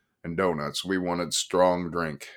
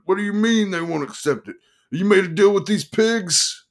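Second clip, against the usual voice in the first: loud, much higher, outraged yell; shouting; 12 semitones higher, 6 dB louder than usual. A narrator's reading. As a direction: hurl the accusation at him. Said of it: "he shouted".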